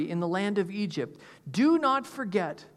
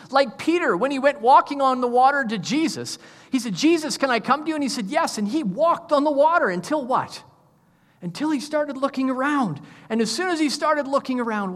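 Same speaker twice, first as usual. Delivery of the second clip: lively storytelling; 5 semitones higher, 5 dB louder than usual. Real, not acted. Animated Peter storytelling.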